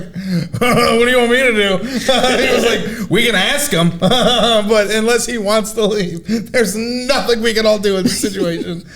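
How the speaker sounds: helpless guard, giggling through the words; laughing quote. Retold or imitated. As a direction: quote the guard while cracking up. Quoting security guard, laughing.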